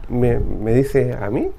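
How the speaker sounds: timid surprise. Acted. Paul surprised, unsure.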